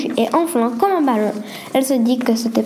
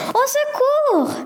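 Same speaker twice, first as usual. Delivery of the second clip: high, drawn-out frightened cry; scream for help; 13 semitones higher, much slower than usual. Acted. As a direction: shriek it out in sudden terror. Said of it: "il ne put s'empêcher de pousser un cri".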